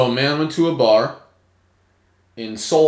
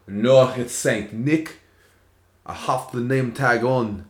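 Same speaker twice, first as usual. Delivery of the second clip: slow, badly done accent for Santa; terrible accent; slower than usual. Santa talking back to a cop, in a terrible accent. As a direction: do a bad accent, drawing the words out. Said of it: "That's a terrible accent".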